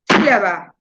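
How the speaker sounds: SÍlaba con golpe inicial y caída grave; acento rítmico. Shown as a demonstration. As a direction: marca el ritmo cargando la SÍ de «sílaba». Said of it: "así, con la mano". («sílaba» a golpe, acento en SÍ)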